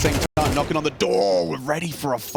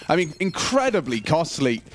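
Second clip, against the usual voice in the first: esports caster. Acted. Low steady play-by-play then hype.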